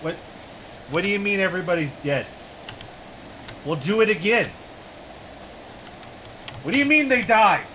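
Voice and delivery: mock commander, building from baffled to yelling; exasperated Soviet commander.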